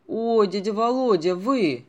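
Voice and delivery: loud, delighted cry of surprise; a frightened boy suddenly recognising his dad's friend; joyful recognition. Acted. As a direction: burst out with relief and joy.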